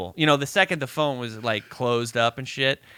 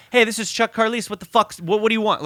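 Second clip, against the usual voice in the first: retold angry dad; 8 semitones higher, faster than usual. Dad confronting phone thief.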